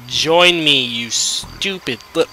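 loud angry join me. Real, not acted. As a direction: snap the order at the pet. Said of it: "I am furious".

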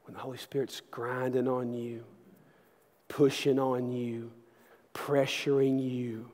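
slow, hushed sermon delivery; intimate preaching. Acted. Preacher urging the congregation toward conviction, hushed and slow.

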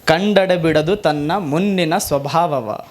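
slow devotional recitation; slow prayerful vachana intoned to the Lord; vachana recital. Acted. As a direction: chant the verse slowly, praying. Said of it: "Basavanna ಅಂತಾನೆ".

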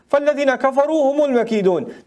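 chanted Quranic recitation, fast and flowing. Acted. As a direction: intone the verse like tajweed recitation.

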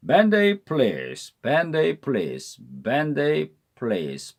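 밴데이 플리즈 with 밴데이 rising then falling in one smooth arc; 밴데이 플리즈 linked and quick, peaking on 밴데이; parabola linking. Shown as a demonstration. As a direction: say 밴데이 플리즈 fast in one arching sweep. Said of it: "포물선 발음법입니다".

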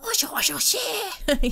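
high, put-on mock voice; imitated commotion. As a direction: mimic them in a silly high voice. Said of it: "being like".

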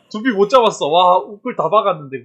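loud exasperated complaint; loud frustrated. Real, not acted. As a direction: vent it loudly. Complaining after missed kill.

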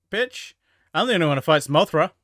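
jealous rival kaiju, yelled with a high snap; mock angry monster. Monster claiming Mothra as its rival, mock shouting. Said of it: "'Cause it's like".

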